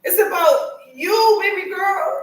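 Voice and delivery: emotional, loud, laughing and crying; crying while speaking. Real, not acted. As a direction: push through tears with real feeling. Emotional encouragement to younger friend.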